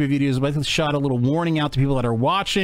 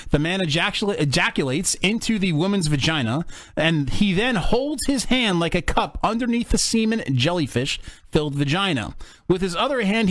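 reading aloud; 3 semitones higher than usual. Acted. Reads definition aloud.

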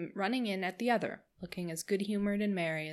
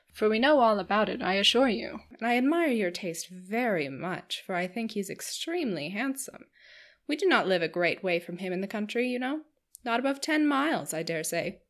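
chattering Missus Palmer; 3 dB louder than usual. Acted. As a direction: bubble over like a giddy hostess. Missus Palmer teasing Marianne.

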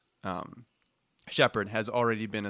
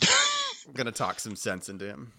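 drill sergeant; 2 semitones higher than usual. Acted. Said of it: "his is like".

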